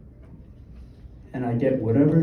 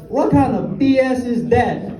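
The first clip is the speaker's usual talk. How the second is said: loud, high-pitched mock Asian accent; indignant friend in a put-on Asian accent; 8 semitones higher, 3 dB louder than usual. Korean friend Kyle scoffs at the quote, in a mock Asian accent. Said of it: "I don't know why I said it like that".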